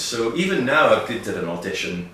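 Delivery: slipping back into Scottish accent; real Scottish accent creeping in. Real, not acted. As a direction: let the native Scottish accent come through. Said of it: "see how Scottish he's gone now".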